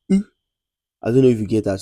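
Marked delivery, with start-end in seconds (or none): 0.1-0.3 rounded French U sound, lips pushed forward. Shown as a demonstration. Teacher modelling the French U for students.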